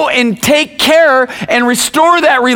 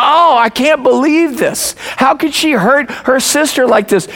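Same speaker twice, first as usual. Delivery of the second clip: higher-pitched mock dismay; upset parent; 4 semitones higher than usual. Dad fuming about one sister hurting the other, retold upset. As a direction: re-enact an indignant parent, mildly worked up. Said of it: "I'm upset, going".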